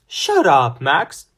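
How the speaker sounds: loud, sharp angry snap. A narrator's reading. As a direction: snap it at him hard. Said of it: "Sasha snapped".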